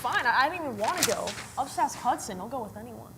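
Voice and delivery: huffy comeback. Acted. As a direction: brush it off in a huff. Rejected, sulky comeback.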